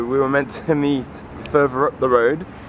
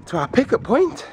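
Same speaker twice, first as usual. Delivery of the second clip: breathless from running; puffing between words; out of breath; 5 semitones higher than usual. Real, not acted. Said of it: "I'm out of breath a little bit".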